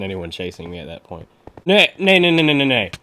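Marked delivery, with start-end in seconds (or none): 1.6-2.9 playful nay. Real, not acted. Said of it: "I don't know I'm saying nay".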